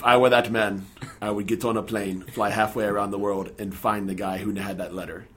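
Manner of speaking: a light attempt at an Ethiopian accent. Director answering a pleading father, light Ethiopian accent. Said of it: "I'll do my best accent here".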